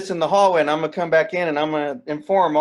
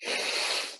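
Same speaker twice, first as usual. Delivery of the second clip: pig-like snort; 10 dB quieter than usual. Acted. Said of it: "Did you just s-, snort that curry?".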